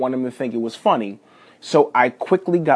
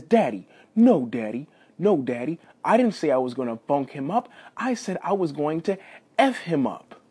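lightly voiced proud little boy correcting dad; emphatic, proud child; 3 semitones higher than usual. Son interrupts his dad to correct him, emphatic and proud. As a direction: insist on it eagerly, imitating a son. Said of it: "So he emphatically made sure".

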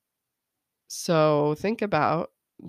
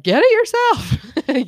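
slow, loud mock snap, pitched up; annoyed snap; 10 semitones higher, 11 dB louder, much slower than usual. Mom snapping at her kid who wants water. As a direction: drag it out like a fed-up mom. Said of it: "I'm like".

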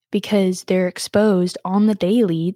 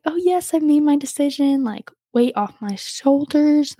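retold glee, voice lifted higher; higher, relieved re-enactment; happy relief; 6 semitones higher than usual. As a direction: act out the fun of announcing it. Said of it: "it was really fun".

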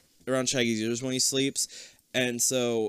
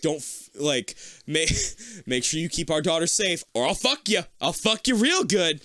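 higher-pitched hammed-up threatening father; mock threat; 4 semitones higher than usual. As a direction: threaten like an over-the-top protective dad. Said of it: "threatened the shit out of Shaggy".

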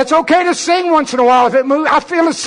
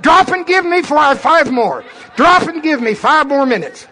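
barking gym coach. Pretend. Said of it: "I'm your drill instructor".

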